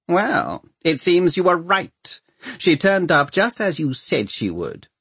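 high, measured official voice; conceding lord mayor. A narrator's reading. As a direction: smoothly concede the point. Lord mayor humouring the creature.

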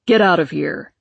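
loud angry yell. Acted. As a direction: yell him out the door. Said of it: "he yelled".

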